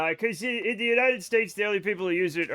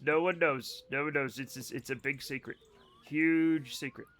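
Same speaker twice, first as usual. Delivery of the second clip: hushed, playful confiding; mock secretive; 4 semitones lower, 6 dB quieter than usual. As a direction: drop your voice as if guarding a secret. Pretends it is a big secret.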